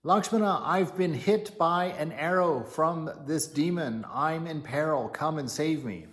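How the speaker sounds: high, loud cry for help; calling for help. Retold or imitated. Demon in Rama's voice calls Lakshmana, high loud yell. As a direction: yell out as if wounded and calling a brother. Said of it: "the demon yells out in Rama's voice".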